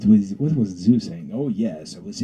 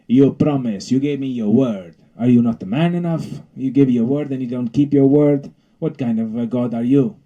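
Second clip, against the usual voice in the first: indignant scolding; 2 semitones higher, 5 dB louder than usual. Acted. Bee berates Zeus.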